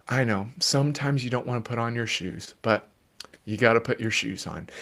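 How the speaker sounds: put-on steady the child without rising; calm parent. Shown as a demonstration. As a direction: parent calmly answering a screaming child. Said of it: "So if you can stay calm".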